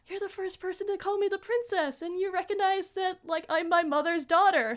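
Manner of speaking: high-pitched imitation of a touched child; amazed gratitude. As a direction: marvel at finally being recognized. Chibiusa moved at being recognised.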